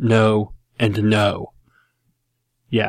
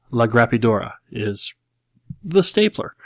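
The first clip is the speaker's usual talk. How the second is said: mock a Texan president mangling Spanish; George W. Bush Spanish. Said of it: "an accent that sounds like Will Ferrell's impression of George W. Bush".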